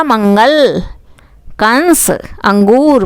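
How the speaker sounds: मंगल, कंस, अंगूर with a held nasal consonant; nasal anusvara. Shown as a demonstration. Teacher recalling the words where the sound is from the nose, nasal anusvara. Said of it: "वहाँ नाक की आवाज़ है".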